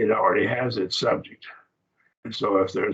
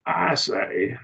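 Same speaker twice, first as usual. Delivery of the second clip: "I say" with a higher, stressed I; emphatic I; 4 semitones higher than usual. Shown as a demonstration. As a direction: lean on I, set apart by pauses. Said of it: "it's I".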